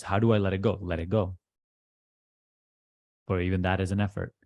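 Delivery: measured instructions with long pauses between phrases; deliberate meditation teacher, key phrases pressed; guided meditation. Acted. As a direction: guide them firmly into letting go, leaving long silences.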